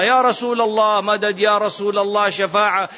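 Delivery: imitated supplicant. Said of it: "وهذا الذي يدعو غير الله".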